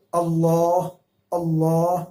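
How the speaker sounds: اللہ with a full, heavy, thick L. Shown as a demonstration. Teacher models اللہ for students, heavy L. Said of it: "جس طرح میں ابھی اللہ بول کر دکھاتا ہوں".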